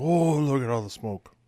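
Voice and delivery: imitating an excited kid's "oh"; happy son. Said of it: "He was so happy".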